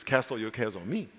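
low, hushed, tender invitation; gentle Jesus quotation. Acted. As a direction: softly offer to take the burden. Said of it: "He says".

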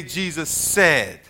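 slow, drawn-out model phrase for the class to echo; slow call to repeat. Shown as a demonstration. Teacher modelling a phrase for the class, slow. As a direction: lay it out slowly so they can repeat.

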